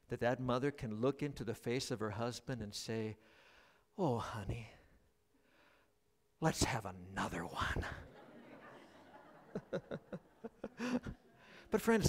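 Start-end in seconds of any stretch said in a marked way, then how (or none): 4.0-7.8 a soft, breathy hushed whisper. Retold or imitated. Mother whispering to her husband in the delivery room. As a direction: whisper it like a tender secret.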